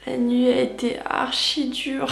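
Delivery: groggy just-woke-up voice; sleepy vocal fry; morning voice. Real, not acted. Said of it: "excusez ma voix du réveil".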